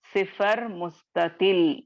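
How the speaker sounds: सिफर मुस्ततिल spelled out slowly, each syllable clear; teacher models सिफर मुस्ततिल slowly for students to copy; slow model term. Shown as a demonstration. Teacher naming the term for her students, slow and deliberate. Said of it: "इसको आप क्या कहेंगे?".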